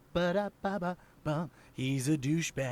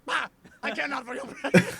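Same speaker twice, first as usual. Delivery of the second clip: pompous bear; 12 semitones higher, 6 dB louder, faster than usual. Retold or imitated. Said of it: "some pompous, like, bear".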